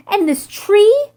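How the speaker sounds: slow triumphant shout from the treetop. A narrator's reading. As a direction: keep shouting, drawn out and proud. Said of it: "he shouts".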